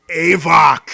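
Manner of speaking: high, loud barked shout of the name. Acted. Undead creature shouting at the party member, high and loud. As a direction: throw the name right at them. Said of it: "turns to you and goes".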